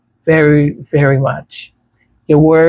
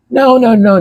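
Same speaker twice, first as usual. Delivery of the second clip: high, louder, firm repeated no; emphatic no; 8 semitones higher, 4 dB louder than usual. Real, not acted. Vlogger refusing to let strangers take her journey, emphatic high no. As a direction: shut the idea down flat out.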